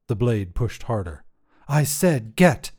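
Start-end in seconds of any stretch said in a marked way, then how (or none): 1.7-2.7 slow, loud, hard command; impatient order. Acted. Kingsguard orders the wizard on, slow and loud. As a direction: spell out each word as a threat.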